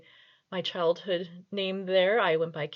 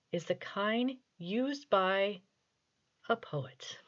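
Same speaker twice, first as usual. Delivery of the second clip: very serious reading. Shown as a demonstration. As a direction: read a child's rhyme as if it were grand poetry. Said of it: "I'm going to do this as a very serious reading".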